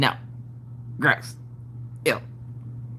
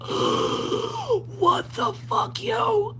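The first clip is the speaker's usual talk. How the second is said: shocked; 3 dB quieter, much slower than usual. Retold or imitated. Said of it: "I was like".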